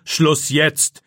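loud, sharp order; commanding. A narrator's reading. Teacher silences Philipp with a loud command. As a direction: cut the boy off dead. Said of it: "befiehlt Herr Wagner".

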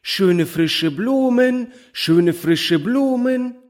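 high, slow, singsong street-seller call; flower girl calling out. A narrator's reading. Little flower girl hawking to the ladies in a high, slow call. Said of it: "indem sie rief".

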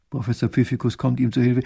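plain reading voice

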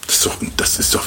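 quick whispered aside; fast whisper. Real, not acted. Preacher confides to the congregation, whispering fast.

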